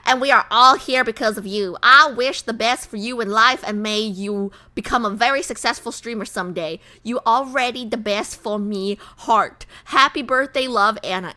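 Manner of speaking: lightly put-on Southern accent. Streamer reading a fan's birthday message, light Southern accent. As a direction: read it out with a touch of Southern. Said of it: "Anna, are you Southern?".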